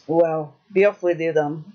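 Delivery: low, gruff troll. Acted. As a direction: dismiss them like a troll. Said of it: "said the troll".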